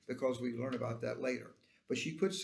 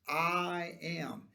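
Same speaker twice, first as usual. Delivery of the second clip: "I am" held out deliberately; weighty, separated "I am"; special emphasis; 2 semitones higher than usual. Acted. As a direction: lean on both words of "I am". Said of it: "This was of special em-, emphasis".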